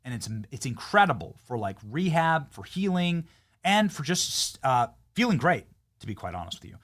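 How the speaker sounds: upbeat sponsor read, punchy and selling. Acted. Host reads a sponsor spot to listeners, upbeat ad read. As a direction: sell the sauna blanket like a podcast ad.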